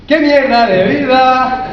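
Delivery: slow, lifted, not defeated; said upright and lively. Shown as a demonstration. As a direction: say it standing tall so the gloom won't stick. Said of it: "si tú cambias la fisiología y te pones así".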